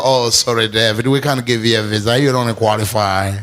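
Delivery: consular officer. Retold or imitated.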